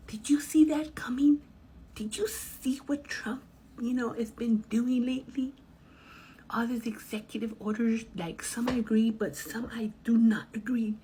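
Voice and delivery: high, whispery tipsy man; tipsy guy. Retold or imitated. Driver mimics tipsy male passenger asking, high and breathy. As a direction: imitate the drunk guy leaning in. Drunk guy voiced in story.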